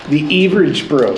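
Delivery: light Wisconsin accent on the show name. Shown as a demonstration. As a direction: say it like a Wisconsin Packers fan. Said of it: "That's my Wisconsin accent".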